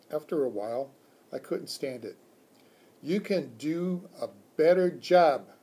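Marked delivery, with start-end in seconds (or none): 3.0-5.5 louder, higher hamster voice; encouraging squeak. Acted. Hamster rallies the slumped teacher, loud squeak. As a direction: cheer him on in a tiny voice. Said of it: "I squeaked".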